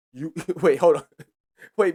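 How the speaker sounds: re-enacted laughter breaking up the words; retold laughing. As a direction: act out laughing in disbelief. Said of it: "'Cause I started laughing".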